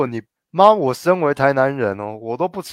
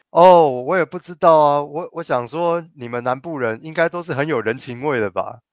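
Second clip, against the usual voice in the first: mock innocence; 2 semitones higher than usual. Mocking Taipei people's fake innocence.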